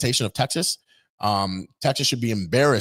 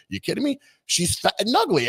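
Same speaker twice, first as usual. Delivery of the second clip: mimicking Trump; 8 semitones higher than usual. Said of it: "He'll say".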